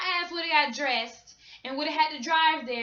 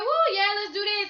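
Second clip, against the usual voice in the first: hyped cheer; 6 semitones higher, 3 dB louder than usual. Retold or imitated. Cheering as the show starts.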